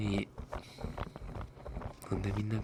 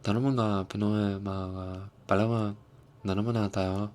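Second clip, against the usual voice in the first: mock Korean-sounding; 4 dB louder than usual. Shown as a demonstration. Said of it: "when I say it like that".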